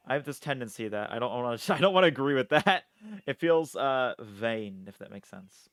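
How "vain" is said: a touch of French accent; accidental French-accented VAIN. Real, not acted. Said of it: "like, a French accent".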